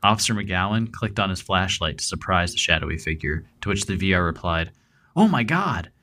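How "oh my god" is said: startled, much higher shriek of fright; high-pitched shriek. Retold or imitated. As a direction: yelp it out high, caught in the flashlight. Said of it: "in a high-pitched shriek".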